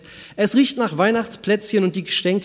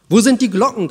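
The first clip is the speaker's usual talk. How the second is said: high, loud despairing cry for the bells; desperate croak; 5 semitones higher, 7 dB louder than usual. A narrator's reading. Blackbird desperately asking where the bells are, croaking cry. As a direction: call out in a panic, croaking. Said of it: "krächzte die Amsel verzweifelt".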